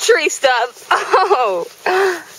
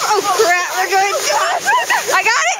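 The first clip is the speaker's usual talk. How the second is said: sledding downhill; 13 semitones higher than usual. Real, not acted.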